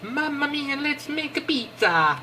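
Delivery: high, hammy Italian chef cry; jolly italian pizza chef. Pretend. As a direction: sing it out like a cartoon pizza chef. Reacting to pizza recipe.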